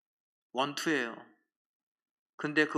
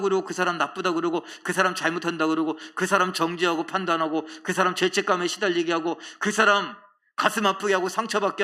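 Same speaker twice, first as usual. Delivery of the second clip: raised, indignant scolding voice; loud, higher-pitched acted reproach; God's rebuke; 4 semitones higher, 6 dB louder than usual. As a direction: play God angrily taking someone to task. Voices God rebuking a believer.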